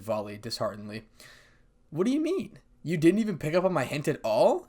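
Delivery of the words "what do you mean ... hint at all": high, pouty complaint; pouting. A narrator's reading. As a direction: sulk at him with a pout. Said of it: "said Kuroko with a pout".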